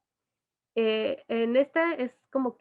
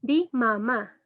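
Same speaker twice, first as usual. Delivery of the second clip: put-on coaxing a baby; 3 dB louder, much slower than usual. Shown as a demonstration. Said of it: "empezamos a decir".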